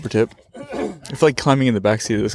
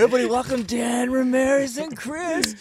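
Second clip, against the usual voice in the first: podcast host intro; 13 semitones higher, 5 dB quieter than usual. Pretend.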